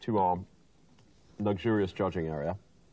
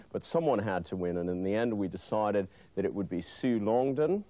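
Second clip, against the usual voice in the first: TV presenter. Acted. Host announces the winner.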